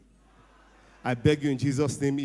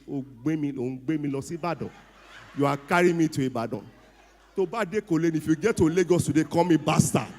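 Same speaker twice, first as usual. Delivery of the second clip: lightly voiced defiant car; car speaking. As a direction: make the car taunt you in Yoruba. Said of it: "he just started speaking Yoruba to me".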